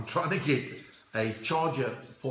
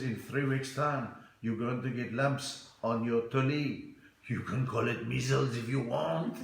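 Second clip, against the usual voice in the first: put-on French accent; 3 semitones lower than usual. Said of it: "this French cherry".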